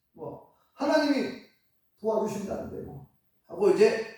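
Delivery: usual speaking voice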